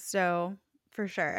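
normal talking voice

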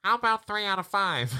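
laughing Potato Head. Retold or imitated. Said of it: "he replies".

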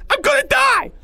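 loud, very high shriek; screaming in panic. Acted. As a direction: scream it out in terror. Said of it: "Porge screamed quicker now".

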